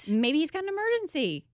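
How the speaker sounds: loud, laughing through the coffee story. Real, not acted. Telling the host about the coffee spill, laughing loudly. Laughing retelling her own thought.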